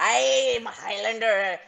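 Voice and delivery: slow, shaky stab at a Highlander accent; attempted Highlander accent. Shown as a demonstration. Actress showing the host her accent, hesitant Highlander. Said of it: "I do my Highlander".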